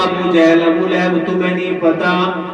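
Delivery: full-force preaching. Acted. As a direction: declaim the story to a congregation, voice held up. (پرجوش خطیبانہ انداز)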